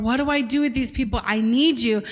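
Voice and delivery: quick, mildly desperate retold plea; a touch of hurried pleading. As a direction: imitate a cry for help, lightly pressed. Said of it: "He cried out desperately".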